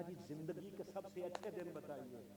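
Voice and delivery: very hushed, gentle enquiry; respectful question. Acted. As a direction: ask it reverently, barely above a murmur. Respectful question to Ibrahim after fire. (अदब से, बहुत धीमी आवाज़ में सवाल)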